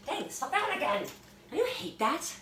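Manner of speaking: high, exasperated; annoyed. Real, not acted. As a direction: groan about the interruption. Annoyed by ringing phone.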